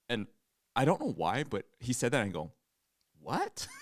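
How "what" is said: mock British accent. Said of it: "French accent and British accent and Australian".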